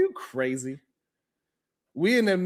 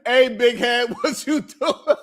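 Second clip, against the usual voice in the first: laughing quote; 2 semitones higher, slower than usual. Retold or imitated. Host quotes drunk call, laughing.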